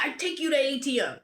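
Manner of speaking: high-pitched imitated Austrian accent. Austrian border guard orders traveler to pay, imitated Austrian accent. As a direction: insist in a put-on Austrian accent. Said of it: "he had a very strong accent".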